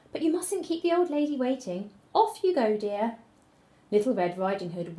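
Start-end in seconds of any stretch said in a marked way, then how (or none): 0.1-3.2 soft voice. A narrator's reading. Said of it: "said the soft voice".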